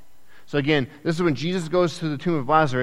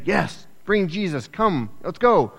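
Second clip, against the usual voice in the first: mock-rejoicing crowd, higher and drawn out; 4 semitones higher, slower than usual. A crowd welcoming Jesus into town, rejoicing. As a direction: cheer slowly like an eager follower. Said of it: "some that rejoice and say".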